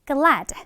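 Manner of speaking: "glad" with a barely released final d; weak final d. Shown as a demonstration. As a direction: say "glad", just hinting at the last d. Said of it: "끝에 드 발음이 살짝 약하게".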